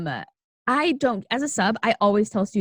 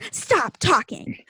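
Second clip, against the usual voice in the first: stern teacher; 3 semitones higher, slower than usual. Retold or imitated. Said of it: "she's like".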